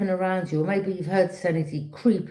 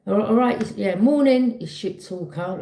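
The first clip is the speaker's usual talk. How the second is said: mock fake-friendly greeting; 3 semitones higher, 4 dB louder than usual. Mocking a two-faced greeting.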